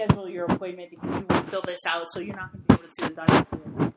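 fast, firm dismissal; brisk nurse. Retold or imitated. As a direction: rattle it off like a brisk receptionist.

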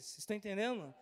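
ordinary talk, nothing marked

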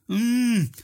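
high drowsy mock grunt; storybook sleepy grumble. A narrator's reading. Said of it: "gromt hij slaperig".

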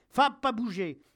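high, loud shout to stay; yelled dog command. A narrator's reading. Soldier near breakdown to his growling dog, yelling. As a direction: yell at the dog in desperation. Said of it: "je hurle".

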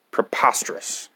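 whispered in exhaustion; exasperated whisper. Acted. Reader done with the book, exasperated whisper. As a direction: breathe the word out.

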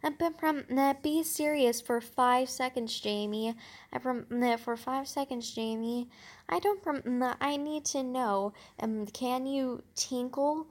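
mock-serious girl pressing him, barely changed from the reader's voice; understated take on the cool girl asking, slowing at the end; imitating cool girl. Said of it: "then I imitate cool girl's voice".

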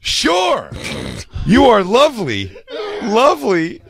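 high, giddy eager replies. Retold or imitated. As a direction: gush like a smitten sucker. Voicing someone's eager replies.

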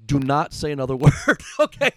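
retold stern telling-off; stern warning. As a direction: warn him off, no room to argue. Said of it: "and I go".

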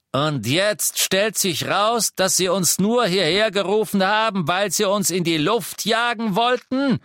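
furious Death Eater yelling; bellowing. A narrator's reading. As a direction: roar the accusation. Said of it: "brüllte der Todesser".

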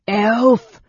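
high, loud shrieked accusation; goblin shriek. A narrator's reading. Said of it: "the goblin shrieked".

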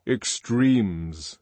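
put-on measured, lecturing older man; a hint of the lofty controller; controller's voice. Controller lecturing students, lightly voiced.

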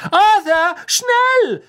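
very high, loud urgent call; mother calling her husband to the train. Acted. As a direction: yell for him to hurry. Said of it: "rief Misses Weasley".

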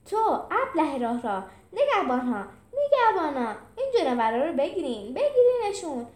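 general's angry shout, rising at the end; screaming. Acted. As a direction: scream for the guards to seize them. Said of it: "سپهسالار جیغ زد".

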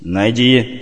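angry snap. Acted. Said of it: "сердито оборвал".

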